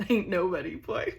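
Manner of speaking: twangy Texas aside; Texas twang. Real, not acted. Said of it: "You can tell I've been in Texas".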